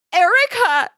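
high, loud shocked cry. A narrator's reading. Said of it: "she cried".

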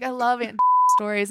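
laughing mid-quote. Retold or imitated. Telling friends about her aunt, laughing. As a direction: giggle through the quote. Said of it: "I was like".

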